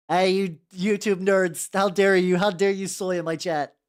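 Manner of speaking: hammed-up scolding of the chat, loud; loud mock indignation at chat; mock outrage. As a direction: playfully tell off the nerds.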